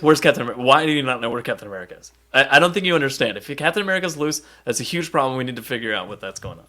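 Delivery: fast, panicky mock-worried rant; hammed-up fearful rush; terrified Hank. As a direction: rattle it off like a scared scientist. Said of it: "Hank is terrified of this man".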